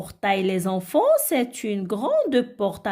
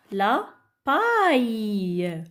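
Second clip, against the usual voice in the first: model reading; much slower than usual. Shown as a demonstration. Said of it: "le deuxième mot".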